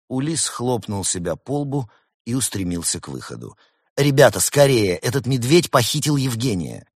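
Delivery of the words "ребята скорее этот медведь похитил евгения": loud, high rallying shout; pressing cry to friends; urgent call. A narrator's reading. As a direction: raise the alarm and hurry them along. Fox urges friends after the kidnapper.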